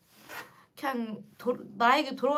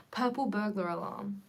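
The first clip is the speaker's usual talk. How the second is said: put-on Scottish accent; 3 semitones lower, 5 dB quieter than usual. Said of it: "I'm really bad at a Scottish accent".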